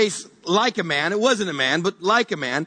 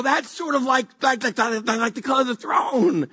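stammered, higher imitation of someone at a loss; groping for words; 3 semitones higher than usual. John trying to describe the throne, groping for words. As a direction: stumble on "like" as if hunting for a comparison.

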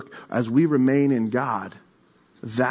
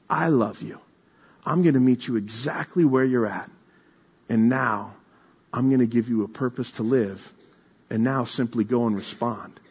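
gentle God voice. Retold or imitated. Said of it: "and God says".

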